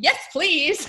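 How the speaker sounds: high, loud, eager "yes". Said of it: "And I was like".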